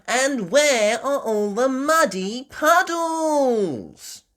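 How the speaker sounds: high, loud, slow little piglet; Peppa voice. A narrator's reading. Peppa looking at the flood, high puzzled little-girl voice. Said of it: "asked Peppa".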